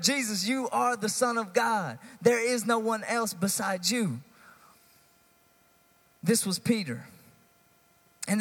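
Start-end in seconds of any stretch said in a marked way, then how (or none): 0.0-4.2 retold declaration in a high, ringing preacher's voice; bold declaration. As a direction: proclaim Peter's words with raised pitch and conviction. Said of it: "He's the one who declared".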